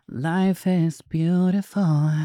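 high, slow, drawn-out words; slow and high after a sigh; emotional exclamation. Real, not acted. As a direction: stretch it out in a high voice. Emotional sigh after talking about cats.

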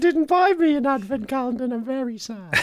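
put-on high whiny kid voice; childish pleading voice. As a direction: whine it like a sad little boy. Pleading to a friend's mum.

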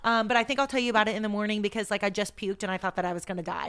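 rushed run-on confession, easing down; fast-talking, energetic. Retold or imitated. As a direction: breeze quickly through alarming news. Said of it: "so fast talking and energetic".

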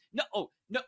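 ordinary talk

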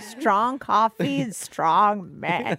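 put-on slow, laughing old woman; a light put-on old lady. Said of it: "Bit of an American accent there with your age".

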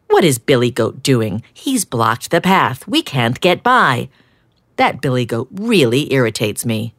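cross duck complaining to his friend; grumbling duck. Acted. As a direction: grumble about being blocked. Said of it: "grumbled Duck".

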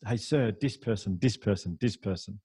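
this said as dis, no th; lightly voiced boy, dis person, dis person; kid saying dis person. Boy shows teacher his friends, this as dis. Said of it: "he couldn't pronounce the T H".

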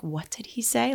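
high, mock-mortified question; mortified mom. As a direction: imitate an embarrassed mother in the audience. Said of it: "she's, like, mortified".

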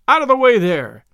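loud, high bawl from the coachman's box; a coachman bawling at the crowd, loud. A narrator's reading. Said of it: "bawled a coachman".

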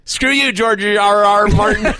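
high, slow, cartoon kid voice; Butters voice. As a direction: squeak it like a frustrated cartoon boy. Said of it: "Butters can never pronounce the guy's name".

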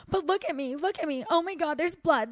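mocking, high-pitched whimpering panic; dramatic crying mimic. Friend retelling how the scooter guy fussed over a tiny scrape, mock-dramatic crying. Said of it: "being so dramatic".

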